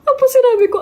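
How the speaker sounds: sudden high-pitched giggle; high laugh. Real, not acted. Vlogger laughing at the memory of the compliment, high laugh. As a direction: laugh it out remembering.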